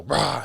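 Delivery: short mock roar; retold angry outburst. Telling hosts how he'd flip when poked, retold angry roar. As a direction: imitate flipping out with a quick "rah". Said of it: "I was very quick to flip".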